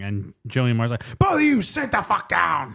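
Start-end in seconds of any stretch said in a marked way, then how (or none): 1.2-2.8 higher-pitched, imitated exasperated command; mock angry order. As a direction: order them like an angry partner. Acting out furious order to men.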